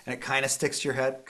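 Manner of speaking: ordinary delivery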